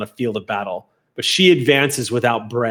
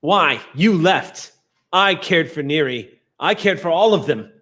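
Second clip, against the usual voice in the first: higher-pitched, emphatic accusation; bitter reproach; 5 semitones higher than usual. Acted. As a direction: throw the blame back at your sibling. Sister's bitter confrontation in roleplay.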